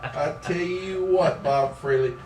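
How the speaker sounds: put-on country catchphrase; hammed-up folksy drawl; brother's country drawl. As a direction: boast in a lazy country drawl. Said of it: "he talks like this every time".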